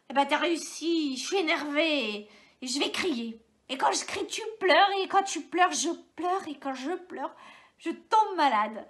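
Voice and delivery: annoyed outburst. Acted. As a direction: snap into a rising tantrum. Mother flares up annoyed.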